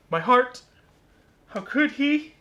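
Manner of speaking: high, mock-wounded melodrama; heartbroken letter sender. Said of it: "they're like".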